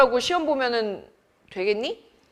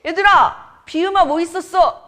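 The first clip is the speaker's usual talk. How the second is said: higher, louder eager asking; mock eager student; 8 semitones higher, 6 dB louder than usual. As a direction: play a keen kid asking the class. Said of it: "딱 가면 다음 주에".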